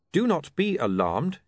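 reading a notice. Acted. Reporter reads the accident card aloud, measured notice voice. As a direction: read it off the card carefully.

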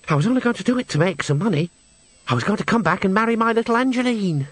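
wistful singer Henry. A narrator's reading. Henry remembers his sweetheart for the witches, wistful character voice. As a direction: confess the old plan as the singer.

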